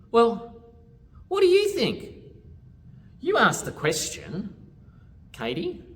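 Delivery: put-on high, loud storybook child; animated, high-pitched character dialogue; child turning question back. A narrator's reading. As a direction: toss the question back pointedly. Child turns question back, acted.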